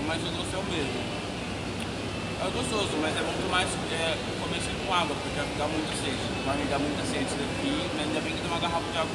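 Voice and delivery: talking while chewing cookie; eating between words; mouth full, chewing. Real, not acted. Seen 1: Bites cookie at -1.0, then talks with chewing jaw and cookie in hand.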